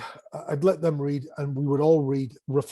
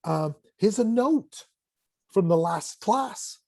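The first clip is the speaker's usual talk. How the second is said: playful game host; 4 semitones higher than usual. Retold or imitated. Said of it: "And I'm like".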